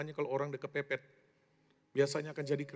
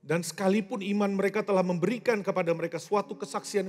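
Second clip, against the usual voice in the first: higher, loud scripture proclamation; forceful preaching; 5 semitones higher, 7 dB louder than usual. Real, not acted. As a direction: build to a ringing, full-voiced declaration. (khotbah berapi-api dengan suara lantang)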